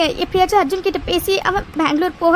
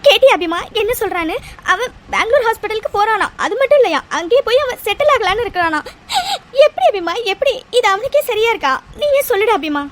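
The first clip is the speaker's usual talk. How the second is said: crying as she appeals; tearful complaint. Acted. Mother complaining to daughter-in-law about her son, tearfully. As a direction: plead through tears. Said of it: "இப்படி அழுதுட்டு இருக்க".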